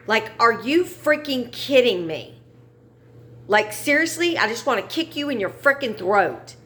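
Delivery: exasperated, rising angry rant; real anger. Real, not acted. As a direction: let the frustration boil over at him. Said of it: "I'm angry".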